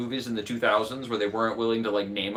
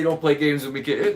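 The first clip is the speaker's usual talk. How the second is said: Biden quote; 4 semitones higher, 5 dB louder than usual. Retold or imitated. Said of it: "He does say".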